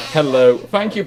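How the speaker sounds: ordinary talk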